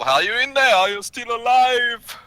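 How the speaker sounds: high, loud call to a trapped friend; urgent yell. Acted. Adventurer calls to friends under fallen stone, urgent yell. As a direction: yell through stone to find survivors. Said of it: "kinda yell".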